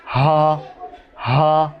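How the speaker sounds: "হা" said from the start of the throat, like hamza. Shown as a demonstration. Teacher showing students "হা" from the start of the throat. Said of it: "হলকের শুরু হতে হামজা হা".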